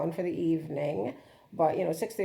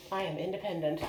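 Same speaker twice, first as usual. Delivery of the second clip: laughing through the words; giggling proudly at the triumph. Real, not acted. First steps alone, laughing.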